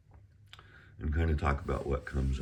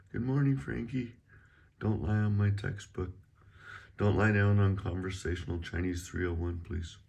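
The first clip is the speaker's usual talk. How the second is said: higher-pitched chat to a cat; talking to pet; 5 semitones higher than usual. Real, not acted. Teacher to Frank the cat, higher pet-talk voice. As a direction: coo a gentle order to the cat.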